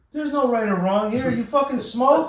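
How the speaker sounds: put-on an old boss leaning on a job applicant; gruff boss demand. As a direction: bark the question at the nervous kid. Boss grilling nervous new hire.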